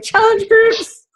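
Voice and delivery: high, slow, drawn-out deathbed gasp; mock-dramatic deathbed plea; dying words. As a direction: stretch it out like famous last words. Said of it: "I'll be like".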